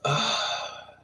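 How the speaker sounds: breathy disgusted ugh; disgusted unvoiced groan. Disgusted reaction.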